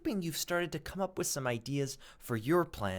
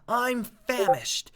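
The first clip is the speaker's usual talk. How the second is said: put-on high, slow, louder old grasshopper; 8 semitones higher, 9 dB louder, slower than usual. Grasshopper telling James he is famished, high slow drawn voice. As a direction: stretch out the hunger like an old insect. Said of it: "the old green grasshopper said".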